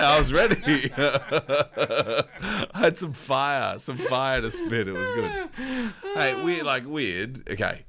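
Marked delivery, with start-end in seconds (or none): 0.0-5.5 laughing. Real, not acted. Laughing defence of beatboxing.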